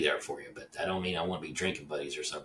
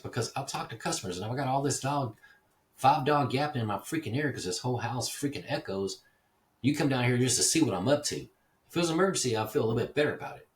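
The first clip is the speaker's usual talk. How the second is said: higher, louder scolding; retold angry rant; 7 semitones higher, 5 dB louder than usual. Man scolding neighbor for dropping by uninvited, loud and angry. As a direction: chew him out for showing up again.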